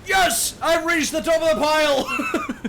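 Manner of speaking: high, loud victory cry, drawn out; mock triumph. Streamer named someone's most beloved Australian, mock triumph. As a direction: crow like you just won.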